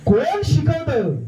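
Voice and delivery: rising, drawn-out loud question to the crowd; loud slow call. Real, not acted. Speaker challenges the audience, loud and slow. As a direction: call it out slowly to the whole hall.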